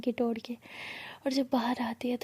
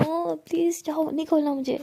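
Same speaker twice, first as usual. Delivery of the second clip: raised, insistent refusal, higher; loud refusal; 4 semitones higher, 4 dB louder than usual. Acted. Aalia shouting at Rimsha through the door, louder and higher.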